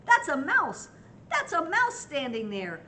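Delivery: loud high scared cry; frightened shout. Acted. Elephant scared by the mouse, high frightened shout. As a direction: shriek it in fright. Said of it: "shouted the elephant".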